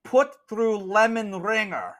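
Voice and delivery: high, emphatic nun in broken English; exasperated nun. Acted. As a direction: correct a slow customer, word by word. Nun corrects the customer.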